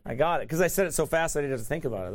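quick words through a real laugh; laughing, rushed. Real, not acted. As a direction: rattle it off, half laughing at himself. Laughing at own fast word.

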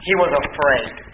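hushed, slow and heavy; slow hushed emphasis. Shown as a demonstration. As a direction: drop the voice and slow right down for "he was afraid". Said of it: "notice this".

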